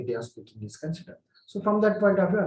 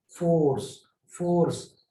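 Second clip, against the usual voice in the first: "Force" with extra weight on the opening F; stress on F. Shown as a demonstration. Teacher showing students which word takes more force, stressed F. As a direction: lean into the F of "force", saying it as a separate, drawn-out word. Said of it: "I need to stress more on F".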